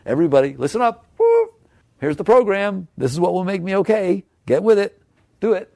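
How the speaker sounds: loud, high, bossy demands to everyone; a hammed-up entitled rant; mock demand. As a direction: bark orders at the whole world. Acting out demanding everyone fix him.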